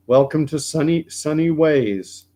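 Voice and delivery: high, loud, sing-song imitation of the prime minister's slogan; mock Trudeau slogan. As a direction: ham up the cheery campaign line. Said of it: "that's what he said in twenty fifteen".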